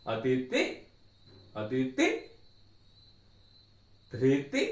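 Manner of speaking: udatta, high pitch on अदिति; high tone demo. Shown as a demonstration. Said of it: "अभी हम नीचे tone में use करेंगे". (उदात्त ऊँचे स्वर में)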